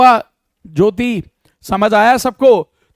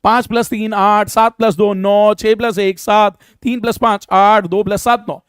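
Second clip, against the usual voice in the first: quick sum answers; slower than usual. Shown as a demonstration. Teacher showing students how fast answers should come. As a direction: rattle off each sum with its answer. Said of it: "ये fast होना चाहिए".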